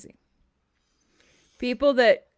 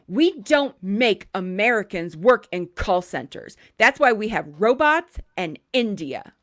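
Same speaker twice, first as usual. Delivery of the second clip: mock bigoted caller; 5 dB louder than usual. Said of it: "And the caller says".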